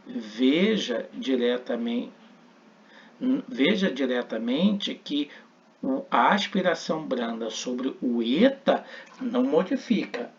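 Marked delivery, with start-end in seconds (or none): none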